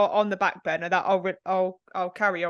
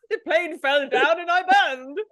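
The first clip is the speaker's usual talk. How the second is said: higher, laughing mock British account; deadpan disaster told through giggles; mock flat British storyteller; 6 semitones higher, 3 dB louder than usual. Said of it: "he was like".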